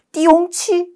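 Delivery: high, silly startled sound-word; mock surprise. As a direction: play-act being startled. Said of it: "이런 말을 직접 입 밖으로". (장난스럽게 놀란 척)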